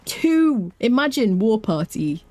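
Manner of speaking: high, drawn-out, gasping excitement; thrilled amazement. Real, not acted. Streamer finding two rare followers, thrilled and gasping. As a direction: marvel at the find, slow and high.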